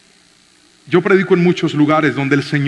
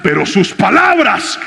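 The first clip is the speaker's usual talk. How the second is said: preaching at full force; 7 semitones higher, slower than usual. Acted. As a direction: call for the amen. Preaching climax to congregation.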